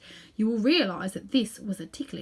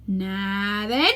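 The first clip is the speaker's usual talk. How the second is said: policeman; 3 dB louder than usual. Acted. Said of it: "said the most important of the policemen".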